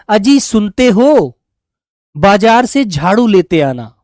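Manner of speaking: lightly imitated wife, drawn-out call; wife calling husband. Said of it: "आपकी पत्नी आपसे कैसे बोलेगी?". (पति को पुकारती पत्नी की हल्की नकल)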